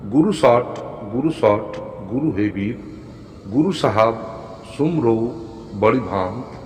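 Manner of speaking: measured chant with shorter pauses; repeated recitation. Shown as a demonstration. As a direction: recite it slowly in flowing phrases. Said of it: "মন্ত্রটি আরেকবার বলছি".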